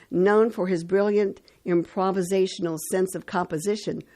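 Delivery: measured announcer read with pauses before names; radio history read. Acted. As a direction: read out the dates and facts like a radio host. Reads today in history on radio.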